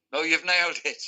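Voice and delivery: badly imitated Irishman; Bernie, Irish accent. Producer telling the singer he's nailed it, imitated Irish accent. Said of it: "He's Irish. Sorry, it's a".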